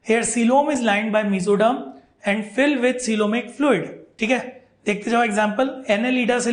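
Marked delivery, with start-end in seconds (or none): 0.1-3.9 slow dictation pace, word by word; slow read-out. Shown as a demonstration. Teacher dictating a definition to students, slowly. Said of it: "तो read out करते हैं".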